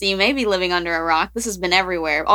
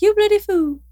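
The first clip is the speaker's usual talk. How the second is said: imitating the duck; 12 semitones higher than usual. Host demonstrating the duck's British-sounding squawk. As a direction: screech the start of the catchphrase. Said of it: "more British than Australian".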